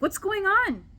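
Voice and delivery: high, rising mock alarm; confronting question. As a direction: retell it as a high-pitched demand. Intervening in a retold fight.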